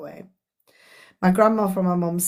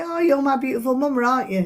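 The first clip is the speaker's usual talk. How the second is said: affectionate coo; 5 semitones higher, faster than usual. Retold or imitated. Same line years later, brighter.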